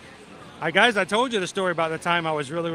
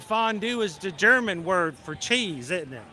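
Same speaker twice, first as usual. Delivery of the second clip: bad Southern accent; 5 semitones higher than usual. Tired diner amusing the servers, bad Southern accent. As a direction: piece it together in a fake Southern accent. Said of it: "really bad Southern accent".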